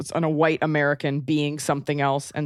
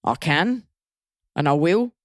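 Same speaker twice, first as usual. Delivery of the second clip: playful attempt at British; put-on British accent. Shown as a demonstration. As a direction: answer in an imitation British accent. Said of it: "can you do a British accent?".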